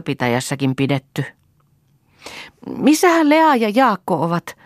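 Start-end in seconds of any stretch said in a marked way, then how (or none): 2.8-4.6 anxious high worried voice; fretting. A narrator's reading. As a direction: fret over the missing children. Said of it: "hätäili Hanna".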